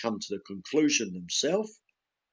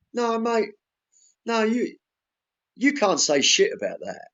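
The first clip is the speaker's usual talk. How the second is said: retold outburst; 8 semitones higher, 4 dB louder than usual. Heated row with son over dolphins.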